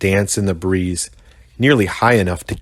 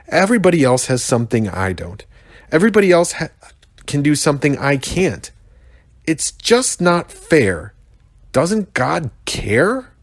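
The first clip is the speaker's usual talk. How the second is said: self-pity; 7 semitones higher than usual. Acted. Rhino's self-pitying outburst.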